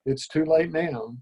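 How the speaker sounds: a touch of melancholy, understated; mildly rueful regret, gently voiced. Faun regretting his poor geography, mildly melancholy. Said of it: "in a rather melancholy voice".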